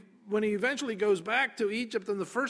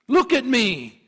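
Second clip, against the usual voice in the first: loud, raised command; firm parental order, pitched up; disciplining parent; 5 semitones higher, 10 dB louder than usual. Acted. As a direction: demand a child's full attention. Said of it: "when you're disciplining your child".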